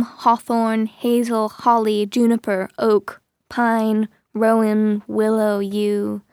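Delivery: slow, measured storybook reading; lingering, evenly paced narration; story narration. A narrator's reading. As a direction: read the trees as a slow, even litany. Narrates a slow litany of trees.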